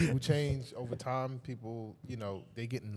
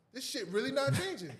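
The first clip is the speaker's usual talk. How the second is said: pitched way up, exasperated; disbelieving high whine. Retold or imitated. Retelling being stuck at a red light, high exasperated whine. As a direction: whine it high like you can't believe it.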